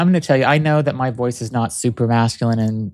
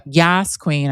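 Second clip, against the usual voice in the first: mock sassy Yas queen; 4 semitones higher than usual. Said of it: "it's very stereotypical".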